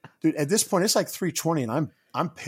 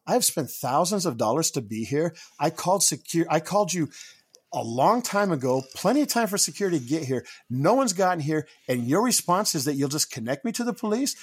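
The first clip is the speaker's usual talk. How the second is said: retold annoyed rant; 3 semitones higher than usual. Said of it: "I kinda lost it at that point".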